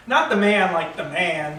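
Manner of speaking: "the man" slowly set apart as a label; stress on THE MAN. Acted. Man clarifying his slang to her, "the man" drawn out. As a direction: draw out "the man" to mark the other sense. Contrasts two senses of phrase.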